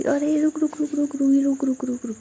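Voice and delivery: high, urgent calls to halt; urgent stop. Acted. Nidhi urgently stopping Roohi before she leaves, high and hurried. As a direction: frantically hold her back.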